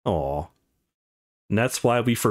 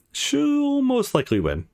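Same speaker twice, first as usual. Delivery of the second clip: wry self-correction; 13 semitones higher, slower than usual. Acted.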